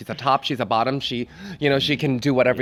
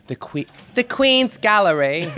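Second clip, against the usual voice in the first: higher-pitched, badly faked British accent; 6 semitones higher than usual. Guest naming a sight in the UK, bad mock British accent. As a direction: attempt a British accent and miss. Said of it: "my British accent is so bad".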